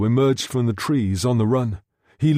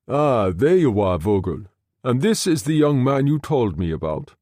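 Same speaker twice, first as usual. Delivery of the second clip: voiced Baum. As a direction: welcome them with easy authority. Baum greets Vogel.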